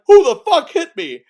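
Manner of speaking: loud, high mock yell in the dark; angry shout. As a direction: shout at the unseen attacker. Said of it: "you hear Pinky's like".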